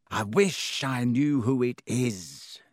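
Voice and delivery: slow, drawn-out petulant whine. A narrator's reading. Malfoy frustrated at not knowing the heir, petulant. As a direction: complain like a sulky, thwarted child. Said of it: "said Malfoy petulantly".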